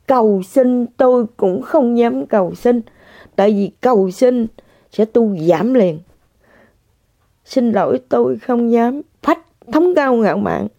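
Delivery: usual speaking voice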